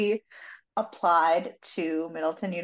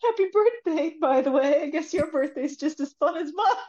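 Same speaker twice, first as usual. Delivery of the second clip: retold teasing; 8 semitones higher than usual. Imitates Rach teasing him.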